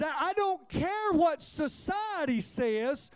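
high, rising preacher's cry as Jesus; preached Jesus. Retold or imitated. Jesus defending Mary to Martha, high forceful preaching. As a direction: declare it with holy authority, building.

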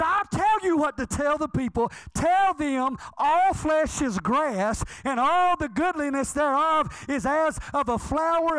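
high, emphatic preacher's voice of God; commanding God. Acted. God instructing Isaiah what to preach, commanding. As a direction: hand down the message, stretching key words. Acts God answering the prophet.

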